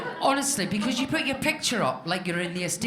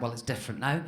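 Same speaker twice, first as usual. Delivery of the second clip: reassuring doctor; 7 semitones lower, 3 dB quieter than usual. Retold or imitated. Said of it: "the doctor was very reassuring".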